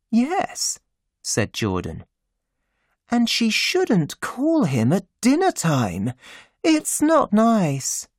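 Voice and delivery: high, urgent hush; Jordan's voice. A narrator's reading.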